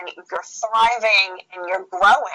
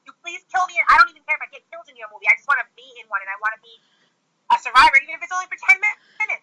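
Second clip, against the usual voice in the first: pleading; 7 semitones higher, much faster than usual. Retold or imitated. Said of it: "I've been telling James".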